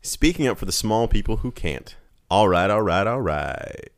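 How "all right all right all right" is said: lazy Texas drawl all right; slow drawn-out Texan; Matthew McConaughey voice. Retold or imitated. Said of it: "says Matthew McConaughey voice".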